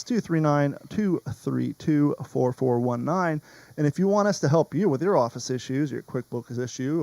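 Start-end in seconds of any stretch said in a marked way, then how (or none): 0.0-3.4 the number read back slowly, digit by digit; host double-checking his notes, reads the number slowly; slow, careful readback. Shown as a demonstration. Host rechecks the phone number for listeners, slow and deliberate. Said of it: "Let me double check".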